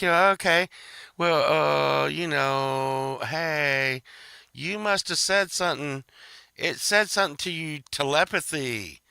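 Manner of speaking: lightly voiced talk-show host, bemused; mock radio host. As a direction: play the host, politely steering a strange caller. Radio host humoring caller voiced.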